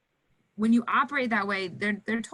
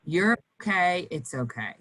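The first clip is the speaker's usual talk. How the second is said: soothing reassurance. Shown as a demonstration. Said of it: "'Cause your voice is really".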